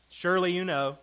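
God mocking Job, high and loud; sarcastic. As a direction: tease him that he knows it all.

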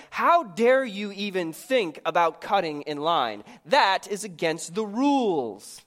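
the strict inner voice scolds the timid one, a hint of mock fury; mock scolding. Mock indignant rule-keeper. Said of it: "the second voice furiously scolds".

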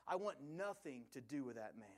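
heated retold denial, easing toward the end; losing his temper. Peter rejecting his questioner in the courtyard, losing his temper. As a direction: insist with mild exasperation. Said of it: "Peter at this point loses his mind".

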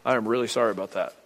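low, soft retold condolence; subdued apology. Preacher retells consoling a new widow, low and subdued.

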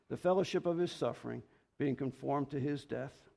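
measured, earnest scripture reading. Acted. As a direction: read the verses as holy words. Reads scripture aloud.

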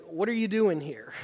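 curious, open question, no edge; inquisitive. Shown as a demonstration. Bible study leader reading the line as a puzzled, curious question. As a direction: ask it like you really want to know. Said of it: "inquisitive asking".

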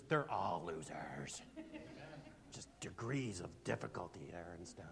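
sly whispered joke to the crowd. Acted. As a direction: drop it as a secret aside. Joking whispered aside.

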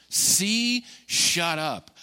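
rising command on Demon, then clipped; a preacher voicing Jesus rebuking. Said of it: "He says".

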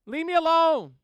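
put-on loud, high childish whine; a kid in school yelling leave me alone; kid's whine. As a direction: shout it like a kid on the playground. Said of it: "hear that all day".

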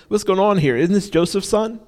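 mock-amazed neighbours gossiping; lightly voiced puzzled crowd; surprised townsfolk. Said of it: "they're like".

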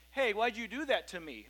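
mock accusatory. Preacher voicing an accuser confronting someone, mildly accusing. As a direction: put on a half-hearted accuser's push. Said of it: "in an accusatory tone".

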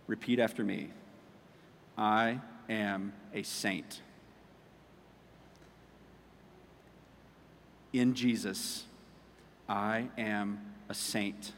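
lightly imitated deep, soft, slow mentor; a hint of a low gravelly mentor, slow. Mentor Michael telling young JP to repeat, low and slow. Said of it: "he has a real deep, gravelly voice".

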